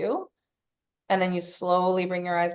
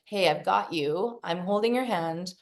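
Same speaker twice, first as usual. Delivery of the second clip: put-on reassuring inner child. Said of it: "We're like".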